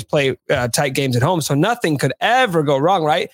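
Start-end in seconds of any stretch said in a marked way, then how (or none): 1.4-3.3 dry sarcastic tone. Pretend. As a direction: say it sarcastically, not meaning it. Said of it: "If I just speak very sarcastically".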